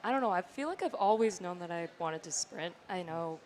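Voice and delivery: raspy from a lost voice; hoarse after cheering all day. Real, not acted. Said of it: "I lost my voice yesterday".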